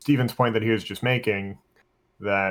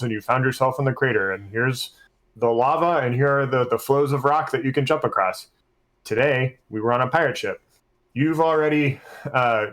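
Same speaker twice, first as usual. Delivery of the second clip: game master scene setting. Shown as a demonstration. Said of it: "I set up the combat as".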